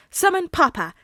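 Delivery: put-on excited child shout; eager child answer. A narrator's reading. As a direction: pipe up proudly like a kid.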